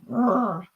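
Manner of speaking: half-hearted lion growl; attempted lion roar. Shown as a demonstration. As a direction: try a roar, then crack up. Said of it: "what about lion?".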